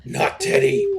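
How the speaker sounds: high, hammed-up wail of grief; anguished scream. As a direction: scream in mock despair for a fallen friend. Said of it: "Flame Skull Two screams".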